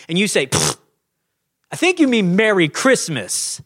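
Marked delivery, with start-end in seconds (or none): 0.5-0.8 a sharp dismissive pfft; scornful puff at the cashier; dismissive scoff. Pretend. 1.7-3.6 snooty correction. Pretend. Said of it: "if you go with that attitude".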